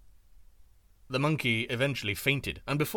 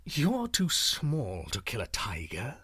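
tiger's voice; 2 semitones lower, slower than usual. Acted. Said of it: "he said".

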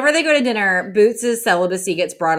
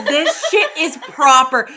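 slow, higher mock-moaning voice; mimicked moan line; 4 semitones higher, slower than usual. Echoing her fake moans, slow put-on voice. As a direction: draw it out in imitation of her. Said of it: "fake moan is".

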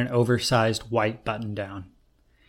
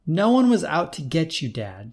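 exasperated; 5 semitones higher than usual. Acted. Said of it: "she said, exasperated".

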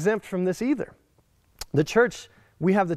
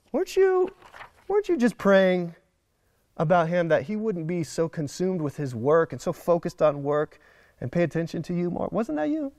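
mock God teasing. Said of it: "imagine God sitting up in heaven going".

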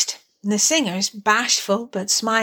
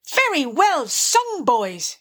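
high-swooping, drawn-out hearty praise; 5 semitones higher, slower than usual. Acted. Rat praises the carol singers, hearty. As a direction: cheer them on heartily. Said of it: "cried the Rat heartily".

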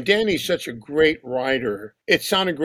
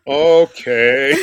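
laughing okay; 6 dB louder than usual. Retold or imitated. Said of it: "She goes".

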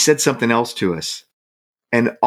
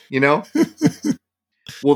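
normal talking voice

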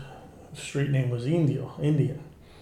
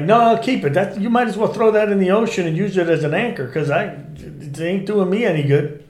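higher, louder and quicker, brushing it off; mock indignation; 5 semitones higher, 4 dB louder than usual. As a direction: fake outrage, waving the pager away. Acting annoyed to fool suspect.

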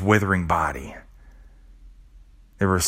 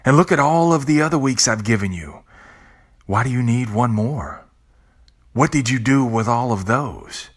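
a hint of an exasperated angel of death; lightly voiced death; 2 semitones higher than usual. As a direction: scold like a weary grim reaper, only lightly voiced. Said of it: "death will say".

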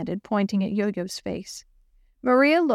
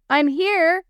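raised voice calling through the door; 7 semitones higher, 6 dB louder than usual. Acted. Girl outside locked classroom, calling loudly. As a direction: call out to be let in. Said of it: "she called as she knocked".

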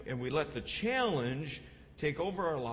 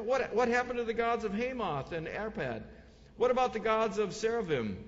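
raised-pitch rhetorical challenge; acted taunting challenge; 4 semitones higher than usual. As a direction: play a commander taunting the crowd. Enemy commander taunts the besieged people.

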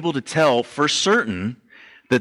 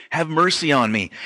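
yelling louder; 4 semitones higher than usual. Retold or imitated. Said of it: "keeps yelling out even louder".

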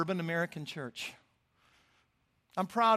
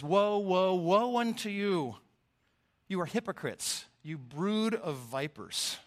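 stern prophetic rebuke; slower than usual. Acted. Jesus rebukes the Pharisees.

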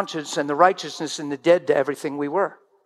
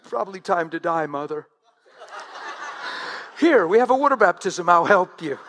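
joking mock threat. Mock line to offended mother.

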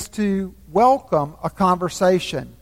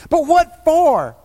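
put-on higher, wondering boy's question; puzzled boy; 8 semitones higher, 4 dB louder than usual. A narrator's reading. Shasta asks the voice, puzzled and high. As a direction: ask it high and bewildered.

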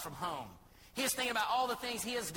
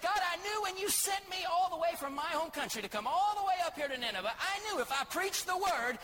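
much higher and louder, protesting prophet; indignant Jonah; 6 semitones higher, 4 dB louder than usual. Acted. Jonah complaining to God that Nineveh got spared, high and loud indignant rant. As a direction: rant at God, pitch climbing with the grievance. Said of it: "Jonah said".

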